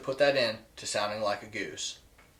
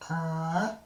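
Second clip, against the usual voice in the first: voiced grunt; 2 semitones higher, 3 dB quieter than usual. Shown as a demonstration. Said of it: "this is what it's gonna sound like".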